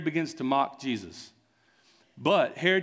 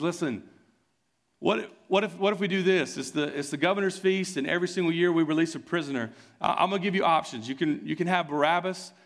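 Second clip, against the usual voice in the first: excited bargaining; 5 semitones higher than usual. Acted. Pilate bargains with crowd.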